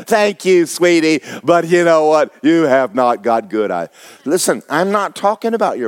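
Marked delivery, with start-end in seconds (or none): 0.1-3.9 lightly mimicked older lady, dropping lower at the end; flattered older lady. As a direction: play an old lady gently correcting a flatterer. Older woman's reply, acted.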